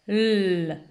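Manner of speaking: L held as a long "lll"; letter sound. Shown as a demonstration. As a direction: hum out a drawn-out L. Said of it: "elle chante". (L chanté, « lll » prolongé)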